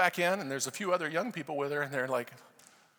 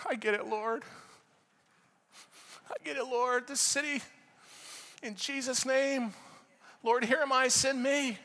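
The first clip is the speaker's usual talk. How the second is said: fervent prayer; 8 semitones higher than usual. Retold or imitated. Re-enacting his fervent intercessory prayer.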